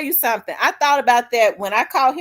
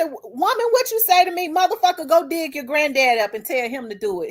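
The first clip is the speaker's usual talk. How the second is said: mock angry man, voice jumps much higher; 5 semitones higher than usual. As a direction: play the riled-up boyfriend snapping back.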